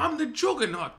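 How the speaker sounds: big booming villain voice; Juggernaut impression. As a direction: bellow it like the Juggernaut. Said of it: "a better Juggernaut".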